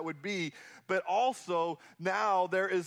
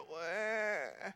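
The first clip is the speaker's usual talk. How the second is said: soft mocking "Wah" of a sulking child; mock whine; 6 dB quieter than usual. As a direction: whimper like a spoilt brat. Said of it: "Can't you just hear the".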